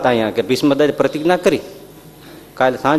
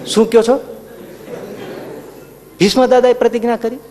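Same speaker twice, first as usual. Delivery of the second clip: startled Krishna; 7 semitones higher than usual. Retold or imitated.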